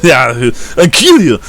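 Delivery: put-on drawling deep south accent; deep south accent threat. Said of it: "Real deep southern accent".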